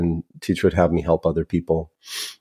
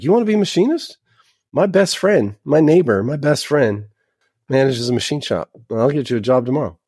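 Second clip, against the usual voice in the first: high, excited voice pitched way up; eager offer; 7 semitones higher than usual. Retold or imitated. Classmate eagerly offering him a machinist job, excited and high. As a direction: sell it like a sudden great idea.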